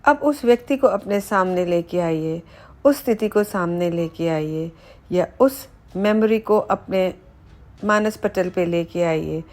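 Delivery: measured meditation voice with pauses between phrases; unhurried body-scan narration, phrase by phrase; guided meditation. Acted. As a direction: guide the listener calmly through relaxing each body part. Leads guided body relaxation meditation.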